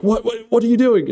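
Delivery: high-pitched frantic protest; mock alarm. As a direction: squawk it in acted disbelief. Acting alarm as door shuts early.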